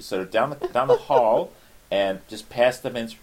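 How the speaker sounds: put-on American usher voice; American accent. Volunteer pointing out the ticket hall, American accent. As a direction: give directions in an American accent. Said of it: "American accent, because the, for me".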